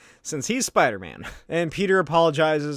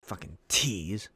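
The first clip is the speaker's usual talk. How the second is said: much lower, softer, slow; low resentful grumble; bitter grumble; 9 semitones lower, 8 dB quieter, slower than usual. Acted. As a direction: sulk it under your breath. Eddie mutters after rejection.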